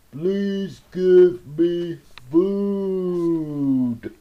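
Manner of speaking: slow, pleading creature voice; anteater's plea. Acted. Starving anteater begs Roy for food, pleading. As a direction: beg for food in a put-on beast voice.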